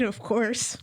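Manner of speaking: normal talking voice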